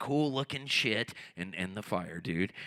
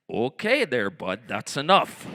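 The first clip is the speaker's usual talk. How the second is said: Canadian; 3 semitones lower, 5 dB louder than usual. Pretend. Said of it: "I start feeling Canadian".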